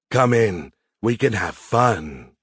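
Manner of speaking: slow, seductive invitation; sultry. Acted. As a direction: draw out the tease. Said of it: "in a sultry voice".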